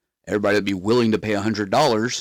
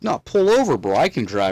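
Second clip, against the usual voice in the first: insistent; 3 semitones higher than usual. Retold or imitated. Insisting friend stop the car.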